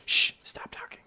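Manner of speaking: sharp shush, then a whisper; hushing whisper. Acted. Hidden creature silencing its companion, hushed whisper. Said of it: "another one goes".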